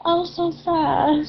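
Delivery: sad whine. Real, not acted. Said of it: "Why do I sound like I'm about to cry?".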